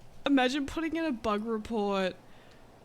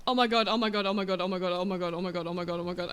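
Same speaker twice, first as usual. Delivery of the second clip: fading oh my god; 5 semitones lower, much faster than usual. Real, not acted. Repeated, fading after relief.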